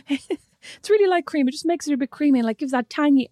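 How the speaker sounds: lightly voiced chatty presenter; impersonating Holly selling salad cream; mock TV host. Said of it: "she's like".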